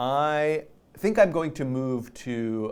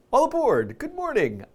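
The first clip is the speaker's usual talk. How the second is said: train conductor call; 13 semitones higher than usual. Acted. Train host greeting viewers.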